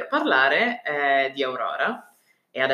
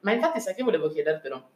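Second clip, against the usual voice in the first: chewing while talking; 2 semitones higher, faster than usual. Real, not acted. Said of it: "Scusate, sto mangiando un".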